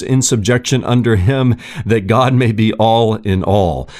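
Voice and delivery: measured, solemn reading of the passage aloud; scripture reading. Acted. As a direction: read the verses like a pastor from the pulpit, steady and weighty.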